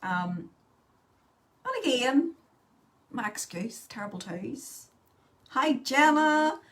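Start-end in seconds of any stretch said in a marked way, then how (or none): 5.5-6.6 loud greeting. Real, not acted. Greeting viewer on live.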